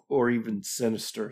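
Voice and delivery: a touch of laughter in the voice; slight laugh. Real, not acted. Apologetic host tickled by the word sinister, slight laugh. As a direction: let a small laugh creep into the word. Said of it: "I'm laughing as I say that word".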